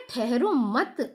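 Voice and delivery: slow ठहरो मत, halted after मत; stop after मत. Shown as a demonstration. Teacher placing the comma after मत, slow stop on मत. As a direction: draw out ठहरो मत as one phrase and stop. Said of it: "उसके बाद कॉमा लग रहा है".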